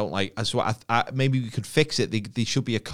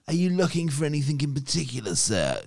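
mock shop assistant; 5 semitones higher than usual. Mimicking a pushy shop assistant.

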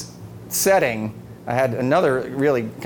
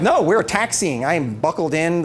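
exasperated protest; 4 semitones higher than usual. Retold or imitated. Husband protesting to his wife from a taxiing plane, exasperated. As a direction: spell out why it's impossible.

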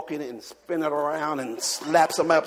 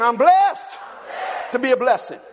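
shouted high, blessed lifted; preached call; 6 semitones higher, 4 dB louder than usual. Shown as a demonstration. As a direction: lead the church to shout it back. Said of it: "Say it again".

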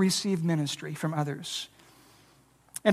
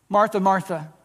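gentle but firm, lower calling of her name; tender and direct; 3 semitones lower than usual. Shown as a demonstration. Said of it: "Can you hear the tenderness in the tone?".

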